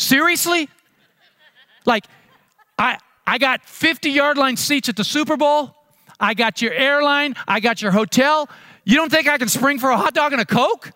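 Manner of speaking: high, laughing disbelief; can't believe you're worried about a hot dog; amused friend scoffing at the worry; incredulous buddy. Acted.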